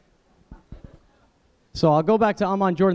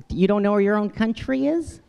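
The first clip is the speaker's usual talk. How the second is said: incredulous; 6 semitones higher than usual. Retold or imitated. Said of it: "incredulous questioner".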